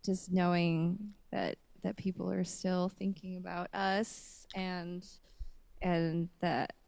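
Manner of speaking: slow, choked-up and emotional; holding back tears. Real, not acted. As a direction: fight back the tears, slowly. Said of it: "I'm trying not to cry right now".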